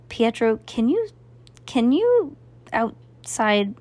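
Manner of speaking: strained, slowed, rasping plea; hoarse urgent half-whisper to the magician; grasping whisper. Acted. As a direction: squeeze the words out through a sore throat. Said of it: "in a grasping whisper".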